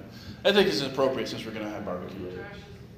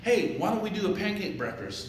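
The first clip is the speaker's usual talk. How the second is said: chicken voice; 9 semitones higher, 3 dB louder than usual. Acted. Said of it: "the chicken's like".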